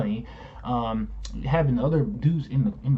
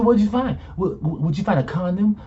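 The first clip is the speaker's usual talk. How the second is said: pushy wife; 5 semitones higher, 3 dB louder than usual. Retold or imitated. Imitating wife pressing him.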